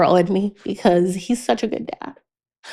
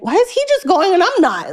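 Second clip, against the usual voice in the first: mock toddler whine; 10 semitones higher than usual. Herself as toddler, laughing.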